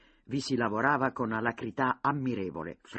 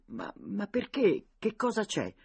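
lento, alto e incredulo; stupito; 10 semitones higher than usual. A narrator's reading. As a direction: chiede senza capire nulla. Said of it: "domandò stupito". (sorpreso e incredulo)

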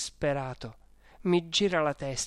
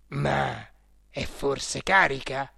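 exclaiming; 2 semitones lower, slower than usual. A narrator's reading. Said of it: "aveva esclamato, sgranando tanto d'occhi".

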